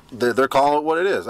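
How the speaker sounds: talking through hiccups; words broken by hiccups; hiccuping. Real, not acted. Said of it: "I got the hiccups now anyway".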